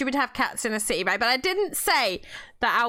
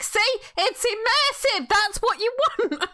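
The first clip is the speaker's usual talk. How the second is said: laughing; 8 semitones higher than usual. Retold or imitated. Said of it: "I was like".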